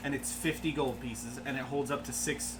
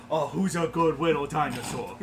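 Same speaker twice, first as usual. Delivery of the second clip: dog talk voice; 4 dB louder than usual. Acted. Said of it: "I'm gonna do the dog talk".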